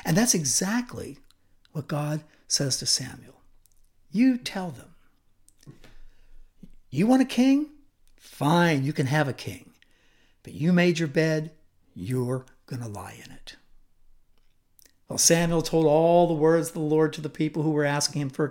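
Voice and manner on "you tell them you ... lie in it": a rebuke that sinks to a hush; stern God. Acted. God scolding the people who want a king, stern then hushed. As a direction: voice of God, stern and rising, then dropping to a whisper.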